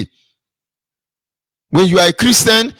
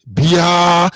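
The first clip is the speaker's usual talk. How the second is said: "Bia" drawn out, left unfinished; half-said word; 3 dB louder than usual. Acted. Speaker demonstrates the name cut short at the UN, "Bia" drawn out. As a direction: hold "Bia" long and stop before "fra". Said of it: "before you put fra".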